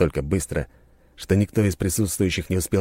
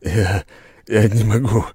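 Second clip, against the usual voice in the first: hoarse wheeze; 4 semitones higher, 5 dB louder than usual. A narrator's reading. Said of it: "прохрипел бритёр".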